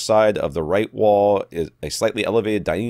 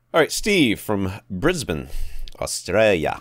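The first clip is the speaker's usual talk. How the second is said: put-on Australian accent; slower than usual. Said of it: "my Australian accent is just atrocious".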